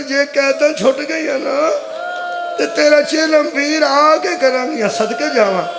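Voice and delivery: imitating weeping sisters, mildly; a preacher's mournful rendering of crying women; tearful lament. Sisters promising their brother his mourning rite, tearful lament. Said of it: "ਰੋ ਰੋ ਕੇ ਕਹਿ ਰਹੀਆਂ ਸਨ".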